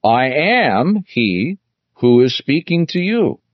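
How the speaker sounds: slow, deliberate weight on "I am he"; emphatic declaration. Retold or imitated. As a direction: stretch "I am he" as a solemn declaration. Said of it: "used this very emphatic expression".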